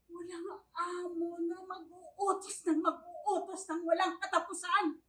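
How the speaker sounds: loud complaint, building in force; fed-up rant. Acted. Yaya rants about endless orders. (inis na pagrereklamo, palakas nang palakas)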